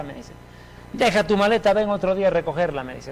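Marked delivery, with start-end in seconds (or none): 0.9-2.8 imitating an angry father, voice pitched up; padre enojado. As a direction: order him off as the fed-up father. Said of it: "Estaba recontra caliente mi papá". (padre enfadado, imitado)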